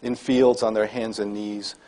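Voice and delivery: slow, measured poem recital with pauses; deliberate, slightly lifted poet's reading voice; poetry reading. Acted. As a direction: read it line by line, weighting each phrase. Reads own poem aloud to audience.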